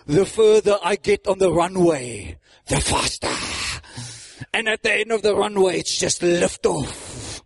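lightly put-on German accent; German accent, drawing out the last word; Reinhard Bonke. An old pastor likening himself to a plane, German accent. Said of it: "Spoke in that German voice".

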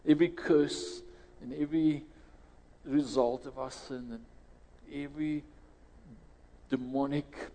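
steady earnest prayer voice. Acted. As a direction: pray aloud over the congregation. Leads the congregation in prayer.

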